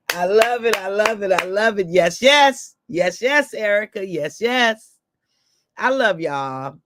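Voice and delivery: high, loud, gleeful yeses; delighted. Real, not acted. Reacting to Erica's comment, gleefully excited. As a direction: bubble over with joy.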